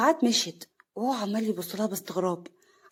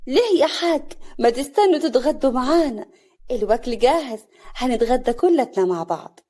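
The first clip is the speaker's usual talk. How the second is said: sly; 3 semitones higher, 5 dB louder than usual. Acted. Hostess urging the guest to lunch, slyly. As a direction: press him to stay with sly eagerness. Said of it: "سعاد بخبث".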